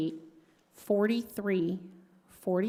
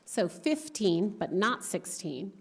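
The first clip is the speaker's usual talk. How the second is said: fifteen slowed and stressed, then not sixteen. Shown as a demonstration. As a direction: clearly set fifteen against not sixteen.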